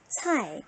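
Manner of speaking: "차이" with a falling Mandarin fourth tone. Shown as a demonstration. Teacher models the syllable for students, "차이" in falling fourth tone. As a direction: drop the pitch sharply through "차이". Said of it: "제사 성이에요".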